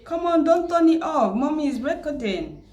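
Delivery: quick motherly plea off to the side. Real, not acted. Mother stopping her child from switching off the camera, coaxing.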